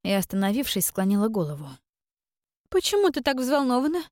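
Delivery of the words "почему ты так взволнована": much higher, rising почему, teasing; sly sister's question. Acted. Sister needling Iren about her worry, high teasing rise.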